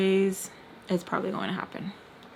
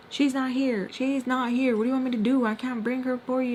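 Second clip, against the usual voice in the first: retold hardcore scolding; 5 semitones higher than usual. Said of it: "Tommy is really hardcore".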